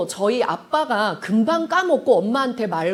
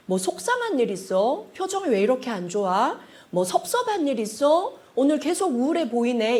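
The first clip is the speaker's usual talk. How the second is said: soft, caring check-in; mildly concerned, slightly hushed; gentle concern; 3 dB quieter than usual. Shown as a demonstration. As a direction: ask tenderly, without pressure. Models a caring question.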